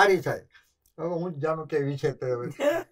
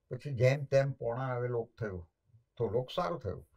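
ordinary delivery

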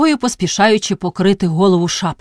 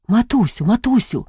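tender pleading; 4 semitones higher than usual. Acted. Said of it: "у ласкавому голосі почувались жалощі".

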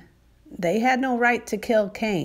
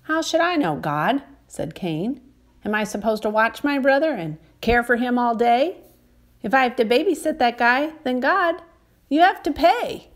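defiant protest; 4 semitones higher than usual. Acted. Cain argues back with God.

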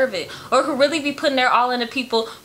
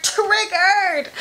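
mock exclaim; 6 semitones higher than usual. Real, not acted.

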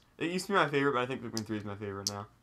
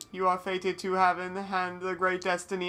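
mystical goddess voice; 5 semitones higher than usual. Acted. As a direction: read it like a solemn oracle. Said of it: "I'll do it".

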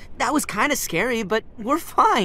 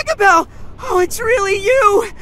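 overjoyed; 9 semitones higher, 5 dB louder than usual. Acted. Overjoyed reunion, cry heard.

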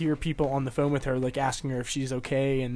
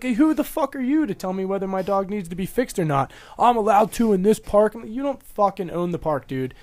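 heated retelling, pitch raised; indignant retold challenge, higher than usual talk; retold angry confrontation; 4 semitones higher than usual. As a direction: replay telling off a stranger, worked up. Retelling his dog park confrontation.

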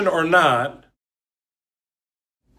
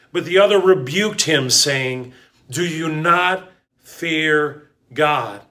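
scripture reading. Acted. Reads scripture aloud.

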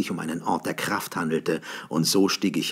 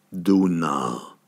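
chorus of voices. A narrator's reading. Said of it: "hallte ein Chor von Stimmen".

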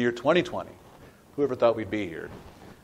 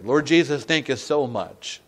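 closing prayer; 3 semitones lower than usual. Real, not acted. Preacher leading the congregation in prayer, hushed closing prayer. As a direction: settle gently into prayer.

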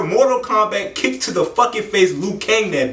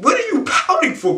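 mocking shout; 11 semitones higher than usual. Mocking the pouting girl.

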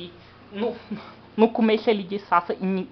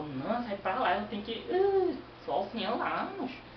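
put-on irritated rich kid; 3 semitones higher, 5 dB quieter than usual. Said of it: "Mauricinho, que tá com raiva".

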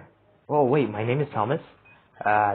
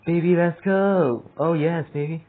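hype cheer; 5 semitones higher than usual. Real, not acted. Hyping a win.

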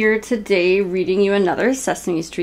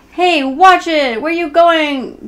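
higher, louder, slow hey watch it; startled call; 8 semitones higher, 5 dB louder, slower than usual. Acted. Neighbor yelling at a passerby rushing by, slow startled call. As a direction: call out after someone rushing past. Character nearly knocked over.

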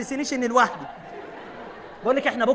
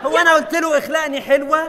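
indignant shout; 4 semitones higher, 6 dB louder than usual. Acted.

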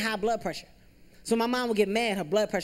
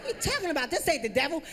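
incredulous protest; 8 semitones higher, faster than usual. Retold or imitated. Son protesting to mom.

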